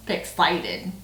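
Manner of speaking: "Fixated" with a twangy, drawn-out vowel. Real, not acted. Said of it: "Why did I sound so twangy just then?".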